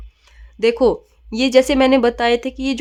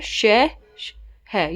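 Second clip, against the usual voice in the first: धीमा उच्चारण; much slower than usual. Shown as a demonstration. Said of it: "उष्मीय व्यंजन होते हैं श".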